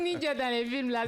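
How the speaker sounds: high, lightly voiced explaining friend; imitating Diallo. Diallo explaining the ninja joke, lightly imitated high voice. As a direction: mimic a friend pointing at the obvious. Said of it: "Il dit".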